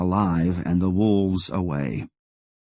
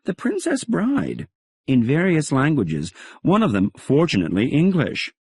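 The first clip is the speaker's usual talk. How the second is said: Helen's voice; 8 semitones higher than usual. Acted. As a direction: let each phrase land pleasantly. Helen reporting, voice raised.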